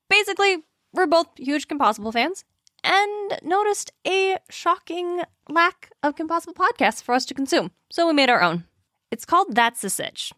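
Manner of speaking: upbeat podcast promo read over music; cheerful sponsor-style plug. Acted. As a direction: pitch the new show brightly.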